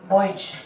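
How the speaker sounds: "बॉयज" closed on a j; final J sound. Shown as a demonstration. Teacher repeating boys for students, final J sound. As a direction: say "बॉयज" as boy-j. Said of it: "क्या बोलेंगे?".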